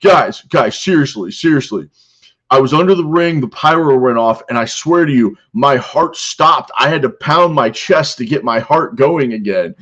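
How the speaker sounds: high, loud hammed-up earnest plea; mock pleading. Leon pleads with the locker room, hammed-up. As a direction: beg the guys to believe you. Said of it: "And he goes".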